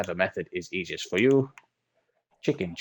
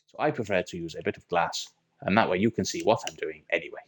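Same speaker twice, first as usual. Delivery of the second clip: mock German accent, drifting in and out; put-on German accent. Minecraft tutor explaining a chicken farm in mock German accent. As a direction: play a German engineer with a lightly put-on German accent. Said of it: "carry on as if I knew this was my accent all along".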